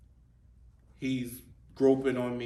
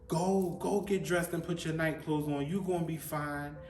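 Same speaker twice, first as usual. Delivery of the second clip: retold yelling; 5 semitones higher than usual. Relatives ordering a crying child to bed, mock yelling. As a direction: mimic being yelled at, voice raised in pitch rather than volume. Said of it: "they was yelling at me like".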